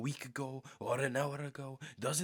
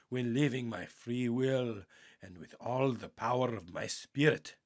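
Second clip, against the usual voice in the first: louder, proclaimed prayer with stretched key words; prayer spoken aloud like a vow, louder than the teaching; prayer recital; 3 dB louder than usual. Acted. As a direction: declare each vow of the prayer out loud.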